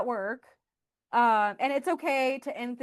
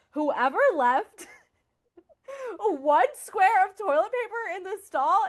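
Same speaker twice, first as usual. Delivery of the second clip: mock outraged post; 7 semitones higher, 4 dB louder than usual. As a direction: drag out "one square" as if it were a tragedy. Reading out her Slack post.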